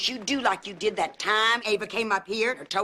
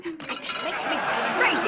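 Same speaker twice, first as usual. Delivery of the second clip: ordinary delivery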